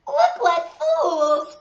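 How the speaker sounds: slow, high jeering taunt; drawn-out mocking jeer. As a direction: sneer it out like a mean schoolgirl. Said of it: "mocked one of the laughing girls".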